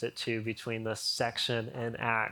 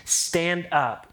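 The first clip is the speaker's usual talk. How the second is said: loud command; 4 semitones higher, 4 dB louder than usual. Acted. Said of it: "Paul called to him in a loud voice".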